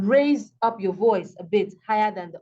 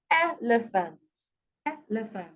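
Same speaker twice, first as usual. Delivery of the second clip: ELephant, opening syllable brought out; stress on first syllable; 4 dB quieter than usual. Shown as a demonstration. Teacher showing word stress, EL of elephant emphasized. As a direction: lean on the EL of elephant. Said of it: "the L is more pronounced than the others".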